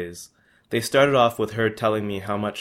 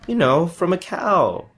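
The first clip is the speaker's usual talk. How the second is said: 1 slow explaining; 9 semitones higher, 6 dB louder than usual. Acted. Miming to confused shopkeeper.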